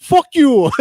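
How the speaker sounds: high, loud cursing outburst; mock angry caller. Spam caller cursing him out, mock angry outburst. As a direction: play the furious caller.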